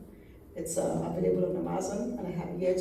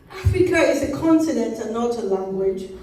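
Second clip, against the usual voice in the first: firm, evenly paced correction; measured reply holding back impatience; measured cadence; 3 semitones higher, 8 dB louder than usual. A narrator's reading. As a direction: state it deliberately, word by word. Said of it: "I said in measured cadence".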